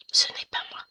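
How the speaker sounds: breathy whispered denial. Shown as a demonstration. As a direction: whisper it conspiratorially. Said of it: "si vous entendez ronfler".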